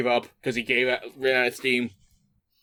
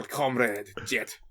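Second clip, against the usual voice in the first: softer, slow and timid, in a mock Russian accent; small voice; 5 semitones lower, 5 dB quieter, much slower than usual. Natasha answers Jet meekly, in a small timid voice. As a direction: shrink back and say it meekly. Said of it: "Natasha said in a small voice".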